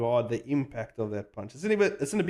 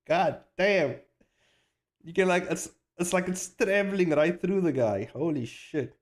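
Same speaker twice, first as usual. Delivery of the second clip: excited awe; 5 semitones higher than usual. Real, not acted. Animator hyping his own punch, excited and raised. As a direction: marvel at the punch landing.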